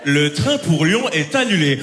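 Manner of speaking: slow, deadpan station announcement; mimicking the cancellation announcement, slow. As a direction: announce it slowly like the PA.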